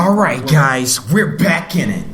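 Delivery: put-on eager young anime hero; shonen protagonist voice. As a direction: play it like a brash anime lead. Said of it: "is what I call the typical shonen protagonist voice".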